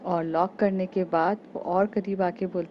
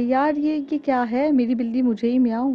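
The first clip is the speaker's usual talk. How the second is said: high, loud shocked outburst; 6 semitones higher, 6 dB louder than usual. Acted. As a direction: exclaim in disbelief. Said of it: "Riddhi shocked हो जाती है". (हैरानी से ऊँची आवाज़ में)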